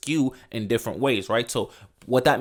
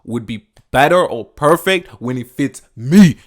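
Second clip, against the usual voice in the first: slow, lightly voiced hero delivery; demo hero line; 2 semitones higher, 6 dB louder than usual. Shown as a demonstration. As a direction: say it slow like a cool movie hero. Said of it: "All you gotta say is".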